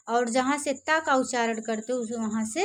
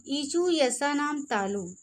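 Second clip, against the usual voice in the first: recited sutra. Shown as a demonstration. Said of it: "जैसे आप लोग अभी पढ़े हो".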